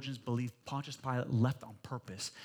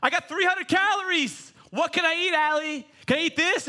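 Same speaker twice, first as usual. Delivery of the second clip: high, loud mock wife pleading over calories; imitating wife; 12 semitones higher, 9 dB louder than usual. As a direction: do the wife asking, pitched up and loud. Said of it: "she's like".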